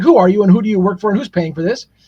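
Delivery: put-on annoyed, pissed-off tone. Retelling a prosecutor's office worker's reply to a survey caller: imitating someone pissed off. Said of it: "They're immediately pissed off".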